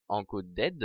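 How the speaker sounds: English word in a heavy French accent; "encoded" said as clumsy French-accented English; bad English accent. Real, not acted. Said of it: "mon accent anglais est horrible".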